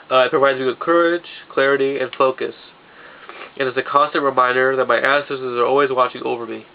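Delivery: talking through a stuffed-up nose; congested, getting a cold; stuffy nose. Real, not acted. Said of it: "I'm sorry that I'm stuffed up".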